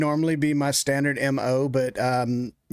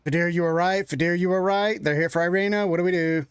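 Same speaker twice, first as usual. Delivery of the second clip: higher, urgent checking on a friend; mildly panicked character voice, pitched up; worried adventurer; 5 semitones higher than usual. Acted. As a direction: ask anxiously what to do now. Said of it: "Erica's gonna do the full".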